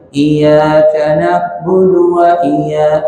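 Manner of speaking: iyyaka with the ya light and unstressed, vowel drawn out; slow chant of "Iyyaka" without doubling the y; common misreading. Shown as a demonstration. Teacher showing students the common slip, misread lax iyyaka. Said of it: "Kebanyakan orang baca".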